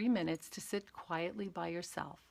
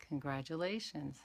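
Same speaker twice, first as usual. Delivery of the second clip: soft, kind self-reminder; a soft, forgiving "Congratulations" to yourself; gentle congratulations; 3 semitones lower, 4 dB quieter than usual. Shown as a demonstration. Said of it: "just say, "Congratulations," and come back".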